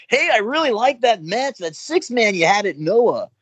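high, eager fanboy gush; mock-eager young fan; eager fan praise. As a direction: gush to your hero, a bit too keen. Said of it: "I said to him".

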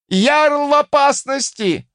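high, drawn-out warning cry; alarm shout. A narrator's reading. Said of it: "послышался новый крик". (крик тревоги)

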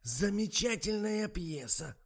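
высокий, громкий, медленный восторг; восхищается пьесой; восторг старухи. A narrator's reading. Голос старухи. (высокий восторженный старушечий возглас)

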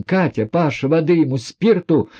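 high, urgent call to the maids. A narrator's reading. Nastasya calling her maids for water, high urgent call. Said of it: "крикнула Настасья Филипповна".

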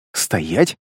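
low barked demonic order; deep demon snapping stop; demon's command. A narrator's reading. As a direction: halt him like a demon master.

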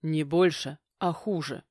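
ordinary delivery

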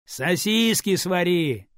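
slow, loud called-out order; loud reply. A narrator's reading. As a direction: call back across the flat. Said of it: "громко ответил Андрей".

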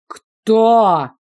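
loud echoing yell. A narrator's reading. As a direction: roar it down the corridor. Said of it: "Вопль эхом метнулся". (громкий крик)

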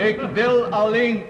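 a short laugh, then words still laughing. Acted. Sir Paul laughs off a heckler's moon jibe, amused. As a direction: brush off the heckler with a chuckle.

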